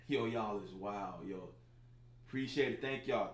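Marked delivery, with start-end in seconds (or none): 0.1-1.5 laughing. Real, not acted. Reacting to wild viewer comments.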